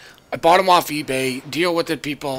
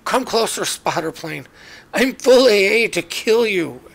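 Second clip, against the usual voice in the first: taunting villain; 5 semitones higher than usual. Pretend. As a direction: lure the plane in like a cartoon villain. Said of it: "I'm like".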